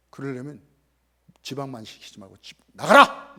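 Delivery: loud, low command to get out; shouted order. Retold or imitated. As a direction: throw her out of the house. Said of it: "이렇게 얘기를 했어요".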